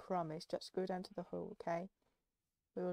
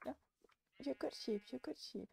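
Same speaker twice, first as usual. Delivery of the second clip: creepy cooing; 3 semitones higher than usual. Acted. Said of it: "you sound so creepy".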